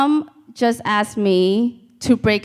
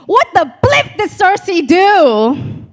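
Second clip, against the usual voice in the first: much higher, louder, frantic question; frantic fan question; 10 semitones higher, 5 dB louder than usual. Retold or imitated. Girlfriend calling her boyfriend at four in the morning, frantic. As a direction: blurt it like a panicked fan at 4 a.m.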